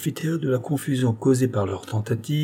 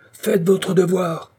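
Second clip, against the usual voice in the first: much higher, slow yell; howling; 10 semitones higher, 4 dB louder, slower than usual. A narrator's reading. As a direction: bellow the order at the executioners. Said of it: "hurlaient les hommes à pique".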